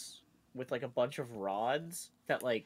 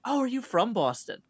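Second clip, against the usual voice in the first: put-on old lady; 11 semitones higher, 7 dB louder than usual. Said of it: "the old lady's like".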